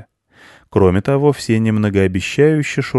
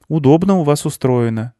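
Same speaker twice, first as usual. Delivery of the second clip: put-on boy commenting; 7 semitones higher than usual. Boy character comments to farmer.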